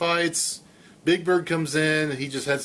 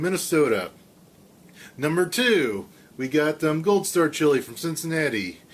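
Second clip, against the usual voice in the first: Casey Kasem. Acted. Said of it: "That's my Casey Kasem".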